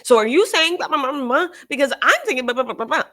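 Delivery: high, loud mock white lady voice; white lady speak. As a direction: parody a white lady probing with questions. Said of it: "That's white lady speak".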